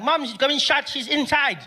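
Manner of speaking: put-on high, casual kid voice; little brother voice. Little brother tells him mom is inside, high kid voice. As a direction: say it like nothing happened.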